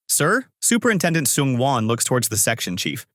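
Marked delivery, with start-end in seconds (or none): 0.1-0.4 high, questioning worry; worried. A narrator's reading. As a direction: ask uneasily, pitch jumping up. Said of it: "Manager Park looks worried".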